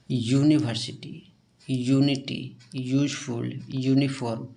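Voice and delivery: यूनिवर्सिटी and the others start with a pressed "yu"; heavy y-sound. Shown as a demonstration. Teacher showing students the heavy yu start. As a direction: press the first letter as "yu" in each word. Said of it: "ये सब में भारी उच्चारण हो रहा है".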